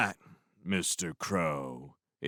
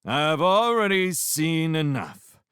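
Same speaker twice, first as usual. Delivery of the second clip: high, loud, slow scolding; mock theatrical disapproval; 10 semitones higher, 7 dB louder, slower than usual. A narrator's reading. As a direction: ham up the moral outrage. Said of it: "mock theatrical disapproval".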